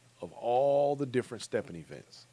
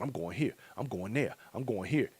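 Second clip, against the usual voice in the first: eager rising lilt on each place, a little softer; listing plans like a giddy kid at Christmas; 5 dB quieter than usual. Retold or imitated. Mock-giddy kid planning every event. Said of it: "like a kid at Christmas time".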